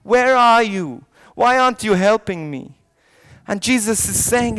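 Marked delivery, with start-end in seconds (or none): 0.0-2.8 raised-voice, pleading complaint; acted cry of reproach. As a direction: call out for help that hasn't come. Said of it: "we're crying out".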